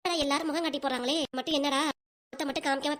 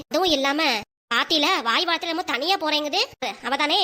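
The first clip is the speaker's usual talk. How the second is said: angry scolding. Acted. Woman rebuking her mother over the daughter-in-law, angry.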